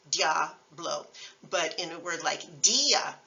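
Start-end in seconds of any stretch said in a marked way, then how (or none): 0.1-1.1 diablo with ia glided as one syllable. Shown as a demonstration. Teacher showing a vowel pair, single-syllable glide. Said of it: "I A is a single syllable". 2.6-3.1 dia split as DEE-a; I A as two syllables. Shown as a demonstration. Teacher showing the accent's effect, two syllables. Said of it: "turns it into two syllables".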